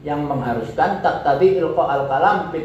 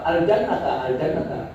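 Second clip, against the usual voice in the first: rising urging; 3 semitones higher than usual. Shown as a demonstration. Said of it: "ke atas".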